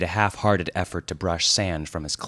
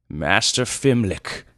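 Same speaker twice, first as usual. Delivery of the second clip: measured, slow address; polite leadership; 3 semitones higher, 3 dB louder, slower than usual. Acted. Wise leader addressing the thief, polite. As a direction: address him courteously but with authority. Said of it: "he said politely".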